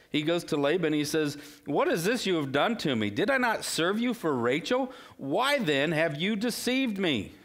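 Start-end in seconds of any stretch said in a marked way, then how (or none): 1.7-7.3 mild anger. Retold or imitated. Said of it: "he's so furious".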